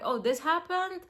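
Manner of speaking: breezy, offhand retelling; mock casual. Imitating herself brushing off problems casually. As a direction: toss it off like it's nothing. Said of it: "really, really casually be like".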